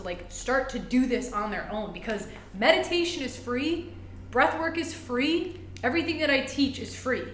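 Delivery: real fired-up conviction; riled up. Real, not acted. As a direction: build real passion as you argue. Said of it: "I'm getting riled up".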